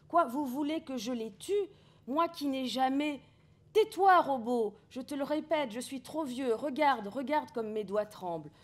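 vieillard qui supplie, plus aigu; un vieil homme en larmes, plaintif et emphatique; pathos. Acted. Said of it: "y a beaucoup de pathos". (Alkist supplie les robots, avec beaucoup de pathos)

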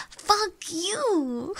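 high, swooping indignant retort; mock-offended squeal; playful outrage. Real, not acted. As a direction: throw it back at the teaser, on the edge of laughter. Repeats retort to teasing chat.

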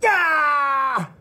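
high sudden yelp of pain. Acted. Husband struck by wife, sharp yelp of pain.

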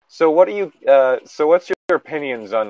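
lightly ape the prim question; mock teacher question. Retelling a dating sim teacher's question, light imitation.

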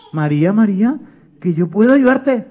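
small voice trying to be heard; insistent little helper; little voice, insisting. Acted. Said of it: "una vocecita que decía".

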